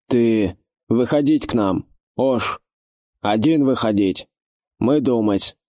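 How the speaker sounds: медленная ломаная речь чужого орка; говори медленно, как чужак с ломаной речью; непривычный голос незнакомца. A narrator's reading. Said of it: "голос незнакомца". (невидимый орк угрожает отряду, медленно и ломано)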